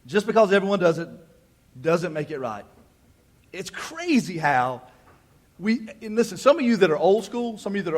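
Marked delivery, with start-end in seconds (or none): 0.1-2.7 stern mama. Acted. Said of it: "I sound like my mama".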